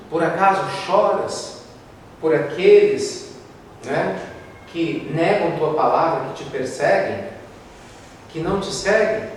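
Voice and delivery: reverent questioning. Acted. Eurípedes questions Jesus, slowly.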